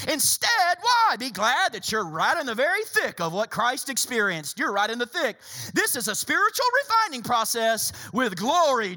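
lightly flippant Bible reading. Acted. Preacher demonstrating Peter's tone to the church, flippant. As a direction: breeze through it with playful emphasis. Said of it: "just listen to that tone again".

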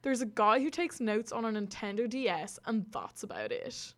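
lightly put-on Southside Dublin accent. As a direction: read the tweet out as a Southsider. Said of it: "gonna read it in a Southside accent".

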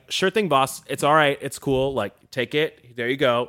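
easygoing, soothing hostage voice; calm the mugger down, slowly; reassuring. Retold or imitated. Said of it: "very, uh, reassuring".

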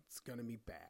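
low, soft and dry; soft low deadpan aside. Acted. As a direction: drop it quietly like a confession. Deadpan warning about the show.

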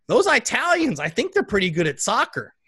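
proud grandma sharing her one soccer fact. Retold or imitated. Grandma tells her grandson about Italians, high and loud. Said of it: "she just goes".

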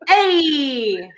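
stretched catchphrase "Hey"; Fonzie. Acted. Podcaster retrying an accent by mistake, Fonzie style. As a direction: hold the vowel like a sitcom greaser.

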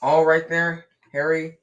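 a loud call up to Harry mid-match; yelling. A narrator's reading. Fred yelling to Harry as he passes, loud call. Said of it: "he had time to yell".

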